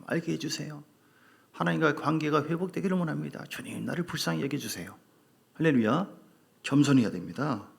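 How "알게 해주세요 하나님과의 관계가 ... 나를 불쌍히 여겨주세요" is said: soft, hushed humble prayer. Retold or imitated. Preacher models a humble prayer to God, hushed and pleading. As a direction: pray it quietly, asking for mercy. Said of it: "이렇게 볼 것이 아니라".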